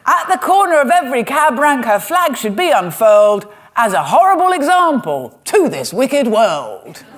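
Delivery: a mock cockney music hall performer, milking each line; music hall comic. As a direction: ham it up like an old music hall comedian delivering the gag. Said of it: "And I love this".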